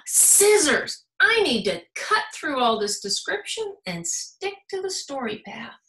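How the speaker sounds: high, loud eureka; excited discovery. Acted. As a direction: seize the idea with a shout. Little Red finds scissors.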